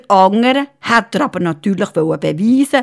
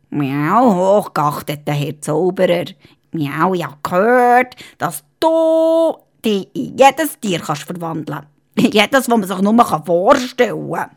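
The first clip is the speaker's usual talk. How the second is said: cat voice. Acted. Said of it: "Der Kater hat sich verbeugt".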